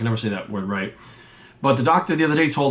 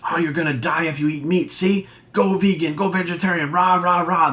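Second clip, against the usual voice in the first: mocking; 4 semitones higher than usual. Mocking vegan scare studies.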